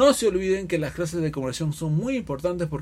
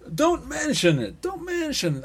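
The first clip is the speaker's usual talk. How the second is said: "Don't mention it" tossed off high, brushing it aside; offhand, over it; 11 semitones higher, slower than usual. Shown as a demonstration. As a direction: wave it away like it's nothing. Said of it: "Así como si fuera superado".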